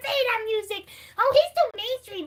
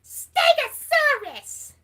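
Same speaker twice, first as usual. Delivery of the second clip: slow, stretched Stegosaurus; lightly voiced Elmo; much slower than usual. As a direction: draw the word out big. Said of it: "Can you name a dino".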